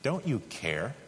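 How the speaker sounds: quiet, wounded "Don't you care?" with a rise on "you"; soft hurt question. Shown as a demonstration. Preacher voicing our doubt at God, soft and hurt. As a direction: murmur it like a private accusation. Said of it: "the slur that we most commonly cast at God".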